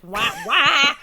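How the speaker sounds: loud horn-like wah breaking into a laugh; loud mock burlesque horn; imitated wah music. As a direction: blare it like music kicking in. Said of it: "suddenly kicks in".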